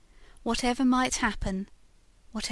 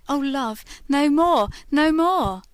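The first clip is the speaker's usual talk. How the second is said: loud, higher anguished cry of pain; 6 semitones higher, 11 dB louder than usual. Acted. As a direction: cry out as the flames rise. Ghost recalls burning at stake.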